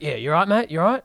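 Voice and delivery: quoting a casual Aussie "you right, mate?"; Aussie accent. Retold or imitated. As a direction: imitate an offhand Aussie check-in. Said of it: "so Aussie".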